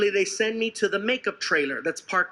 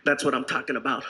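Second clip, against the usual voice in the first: lower-pitched director's praise; intense director; 6 semitones lower than usual. Retold or imitated. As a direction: imitate a director up close. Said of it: "gets in my face".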